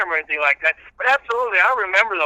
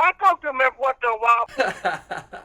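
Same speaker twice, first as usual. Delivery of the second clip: laughing; 3 semitones higher than usual. Real, not acted. Caller cracking up at his own reverend bit, laughing. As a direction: let the laugh take the line. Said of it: "All right, Reverend".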